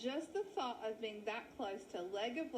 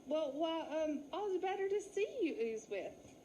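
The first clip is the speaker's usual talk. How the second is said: nervous fake lady; 4 semitones higher than usual. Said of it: "Wally gulped".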